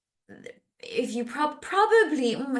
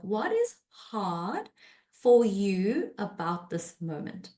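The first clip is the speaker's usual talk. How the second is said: gentle question; slower than usual. Shown as a demonstration. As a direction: ask gently, slowly, to open up. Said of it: "That's the question".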